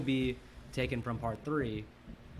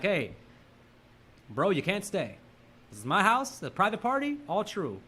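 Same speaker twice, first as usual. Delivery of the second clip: put-on territorial boyfriend; 4 semitones higher than usual. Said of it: "He's like".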